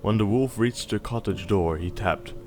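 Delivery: gentle storybook reading voice; bedtime story narration. A narrator's reading. Parent reading Little Red Riding Hood to Snowball, storybook voice. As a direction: read it like a bedtime tale. Reads fairy tale to child.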